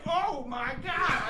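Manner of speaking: slow, quiet, worn-out moan; exhausted groan. Retold or imitated. Sleepless new parent despairing at the crying, slow and quiet. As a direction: sag into it, drained.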